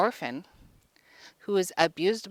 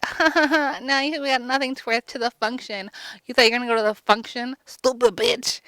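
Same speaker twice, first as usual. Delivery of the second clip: mocking stepsisters; 5 semitones higher than usual.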